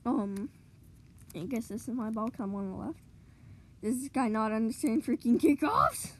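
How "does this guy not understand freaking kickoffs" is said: exasperated, building to a louder finish; riled up. Real, not acted. Gamer fed up with another player's kickoffs, riled up. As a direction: vent your frustration, punching the last words. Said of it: "I'm getting riled up".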